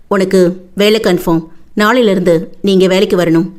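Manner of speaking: contained, authoritative command. Acted. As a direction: hand down an order, without shouting. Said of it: "கணீர் குரலில் அதையும் கட்டளையாகவே சொன்னான்".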